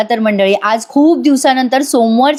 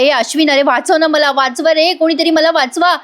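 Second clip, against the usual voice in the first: higher, pleading mock call for rescue; mock cry for help; 5 semitones higher than usual. Priya begging Ashwin from the burning ring, hammed-up higher plea. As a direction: act out a trapped girl begging to be saved. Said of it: "ओरडत असते".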